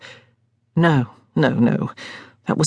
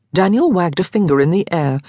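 ordinary delivery, nothing marked

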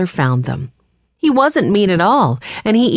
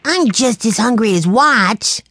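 put-on higher, slower little-boy voice; a hungry little boy pleading; young Benny; 6 semitones higher than usual. A narrator's reading. Benny telling his siblings he's hungry, little-boy voice.

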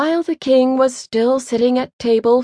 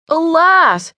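louder, higher second cry of alas; the despairing echo, pitched up; 7 semitones higher, 4 dB louder than usual. A narrator's reading. Simpleton cries out to his comrades in despair. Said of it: "he cried".

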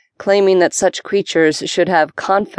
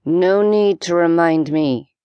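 whispered through clenched teeth; slower than usual. Acted. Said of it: "Potts whispered through clenched teeth".

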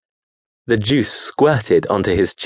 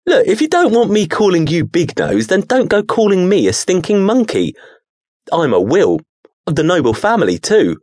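indignant creature; 8 semitones higher than usual. Acted. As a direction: bristle with wounded pride. Creature insulted, protests.

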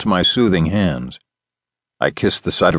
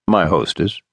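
sweetly smiling. Acted. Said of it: "with a sweet smile toward Candy".

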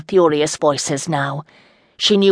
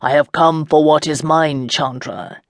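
calm, assured. Acted. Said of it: "saying calmly".

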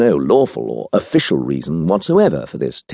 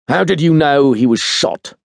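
higher-pitched abrupt challenge; cutting in; 8 semitones higher than usual. A narrator's reading. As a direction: cut in with a pointed question. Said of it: "Teal cut in".

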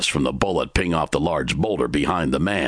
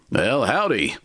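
Timber's greeting; 9 semitones higher than usual. A narrator's reading. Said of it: "Timber stated".

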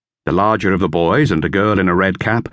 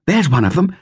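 higher, lightly voiced girl; girl's voice, lifted higher; Dorothea; 11 semitones higher than usual. A narrator's reading. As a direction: read it as young Dorothea. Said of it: "said Dorothea".

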